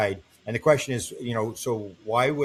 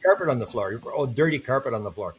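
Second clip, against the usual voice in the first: half-laughing mock outrage at the dirty carpet; laughing disbelief; 2 semitones higher than usual. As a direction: laugh it off like a cheap motel room. Mocking the alien council room.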